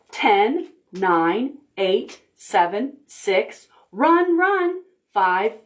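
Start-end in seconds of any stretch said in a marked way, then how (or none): 3.9-4.8 urgent run. Acted. Pigs flee in story.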